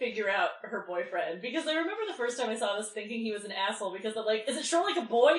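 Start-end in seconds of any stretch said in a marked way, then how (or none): 4.5-5.4 acted-out aggressive, confrontational, coming on strong, high-pitched. Retelling a boyfriend's question on a phone call: imitating someone speaking aggressively. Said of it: "he comes up very aggressively".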